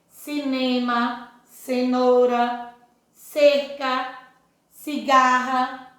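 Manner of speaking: slow, deliberate word-by-word reading; slow classroom read-along, one word at a time; reading aloud with class. Shown as a demonstration. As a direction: read each word so children can repeat it. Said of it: "Vamos ler as palavrinhas aqui junto".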